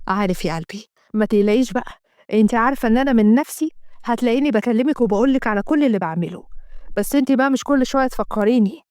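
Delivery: calm the nagging wife; lightly voiced placating husband. Assem reassuring wife Hadeel.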